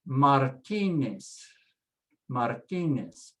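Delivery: Martinez said slowly, stress on TI, Z as S; drawn-out Spanish Martinez for learners; Spanish pronunciation. Shown as a demonstration. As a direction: say Martinez as mar-TEE-nes. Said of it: "always pronounced S, never a Z sound".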